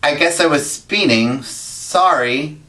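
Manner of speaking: a mild, flat, unbothered admission; phlegmatic. Retold or imitated. Calmly owning up to the cop about speeding, unbothered and flat. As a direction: shrug it off calmly, understated. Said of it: "I just phlegmatically said".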